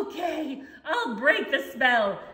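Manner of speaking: giving in through laughter; laughing surrender. Acted. Defeated cat laughing as it gives in. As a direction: laugh as you give up.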